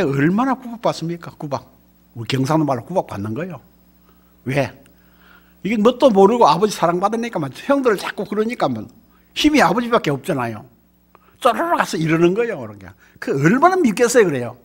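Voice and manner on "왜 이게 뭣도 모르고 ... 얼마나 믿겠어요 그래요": ordinary talk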